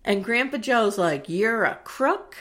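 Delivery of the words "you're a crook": slow, punched-out outrage; indignant accusation. Retold or imitated. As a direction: spit out each charge slowly. Grandpa Joe angrily accusing Wonka.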